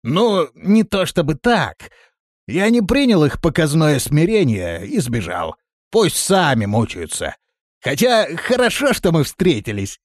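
хвастливый рассказ Рохли; слегка приподнятый голос хвастуна. A narrator's reading. Рохля оправдывается. (хвастливо, чуть выше)

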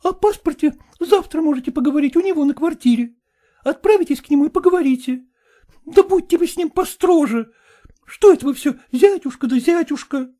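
put-on high, imploring young woman; high-voiced daughter pleading. A narrator's reading. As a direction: beg your father not to make you go.

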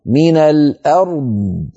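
من الأرض slow, the r kept distinct before the heavy d; slow من الأرض with an audible r; clear r in الأرض. Shown as a demonstration. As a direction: let the r of الأرض sound before the emphatic d. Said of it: "انتبهوا إلى هذا الأمر".

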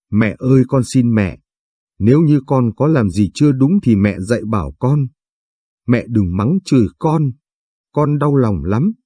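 mild tearful begging, slowing on the last line; understated sob, pleading with her mother-in-law; sobbing plea. Acted. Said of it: "Cô nức nở cầu xin bà ấy". (nức nở van xin nhẹ nhàng)

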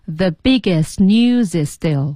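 slow "biggest news is still", words run together; careful, drawn-out "biggest news is still"; linked practice reading. Shown as a demonstration. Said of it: "按照这个实际音标的这个方式练习".

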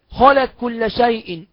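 "خلق كل" run together as khalak-kulla, slowly; slow recitation with the ق of "خلق" turned into a doubled k; qaf merged into kaf. Shown as a demonstration. Teacher showing students qaf into kaf, "خلق كل" said as khalak-kulla. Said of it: "ده مثال على القاف في الكاف".

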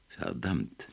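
soft, low muttered damn; quiet curse. A narrator's reading. Nemo curses quietly on grasping the truth. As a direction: let it slip under your breath. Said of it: "sagte Nemo leise".

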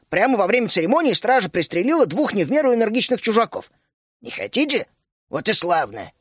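gruff gnome lecturing with mock threats; old gnome keeping the youngsters seated; stern old gnome. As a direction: lay down the law, half joking. Berlan lectures both.

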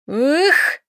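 exhaled cry. A narrator's reading. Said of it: "выдохнула Доменика".

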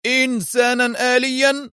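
high, indignant question; angry. A narrator's reading. Arthur answers his doubting boss, angry. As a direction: throw it back high and indignant. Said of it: "هتف آرثر في غضب".

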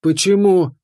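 high wailing cry of a captured fairy. Acted. A fairy pounding his stone back, wailing. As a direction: wail it out, desperate. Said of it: "взвыла".

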